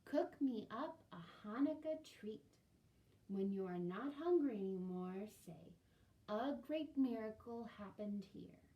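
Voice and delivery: slow, loud, solemn; wise old woman. Acted. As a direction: hand down a magic spell. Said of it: "the old woman said".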